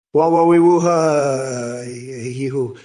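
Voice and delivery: silly cooing bird calls, wah wee woo; mock pigeon noises. Mocking a viewer's bird noises with mock pigeon calls. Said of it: "making noises like a fucking pigeon".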